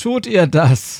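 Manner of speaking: laughing while speaking. A major replies to what he has just been told, laughing. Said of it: "lachte der Major".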